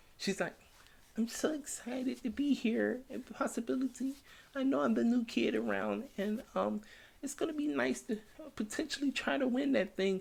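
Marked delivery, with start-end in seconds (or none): 1.2-10.2 timid, shy, small, soft, very high voice. Speaker mimics a girl cutting a promo, imitating a shy promo voice. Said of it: "She she sounds shy cutting the promo".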